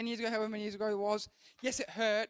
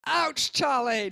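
loud, drawn-out mimicked "ouch"; hammed-up yelp, higher and stretched out; mock pained cry; 4 semitones higher, 9 dB louder, much slower than usual. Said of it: "No, I wasn't really like".

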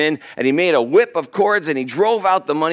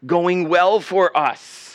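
slow, higher-pitched exasperation; frustrated; 4 semitones higher, slower than usual. Acted. High priest as his case falls apart, frustrated. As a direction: voice mounting frustration, dragging out the words. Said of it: "The high priest is getting very frustrated".

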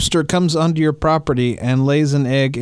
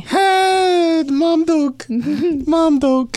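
laughing; 10 semitones higher, much slower than usual. Real, not acted. Laughing high call.

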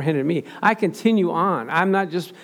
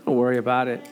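calm coworker voice; 5 semitones lower than usual. Retold or imitated. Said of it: "You know what he says".

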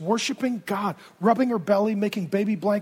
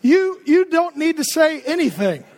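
stern rebuke; 6 semitones higher, 5 dB louder than usual. Retold or imitated. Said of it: "You're gonna shut up now".

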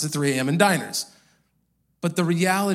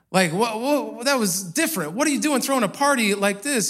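higher-pitched, baffled retold questioning; puzzled diner owner; 4 semitones higher than usual. Diner owner questioning the preacher about the party, baffled.

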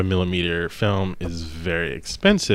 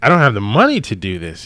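pleading director; 5 semitones higher, 10 dB louder than usual. Retold or imitated. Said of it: "He's like".

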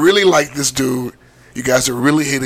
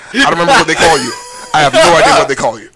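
laughing; 7 dB louder, faster than usual. Real, not acted. Laughing confession.

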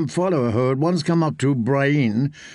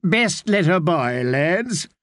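warning; 3 semitones higher, slower than usual. Acted. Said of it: "warned Sir Hyle Hunt".

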